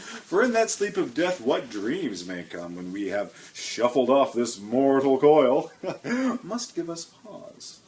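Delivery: slow hammed-up Shakespeare reading; dramatic recitation. Host reciting Hamlet on Poetry Time, slowly declaimed. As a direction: declaim it slowly like a stage actor. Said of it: "I'm gonna read this little bit here".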